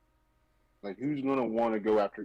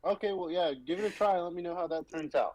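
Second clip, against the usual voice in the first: mock resigned; 6 semitones higher than usual. Mock giving up on customer.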